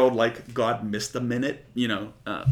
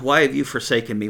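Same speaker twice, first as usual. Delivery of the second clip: louder, crying out to heaven in anguish; retold anguished cry; 5 dB louder, faster than usual. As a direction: call the question out like a desperate plea. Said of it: "When Jesus cries out".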